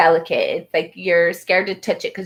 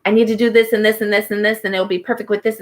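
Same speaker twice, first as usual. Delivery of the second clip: fast, slightly louder anxious rambling; anxious rush; 2 semitones higher, 3 dB louder, faster than usual. Retold or imitated. Imitating an anxious listener rushing to manifest, fast and worked up. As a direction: rattle it off like a frazzled planner. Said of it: "all worked up and anxious and excited".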